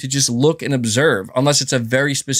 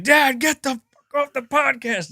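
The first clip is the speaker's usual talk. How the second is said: put-on high whiny kid voice, pitched up a lot; mock his son's complaining, high and childish; imitating annoyed son; 10 semitones higher than usual. Dad mimics son yelling at him to stop streaming, high whiny kid voice. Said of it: "He's like".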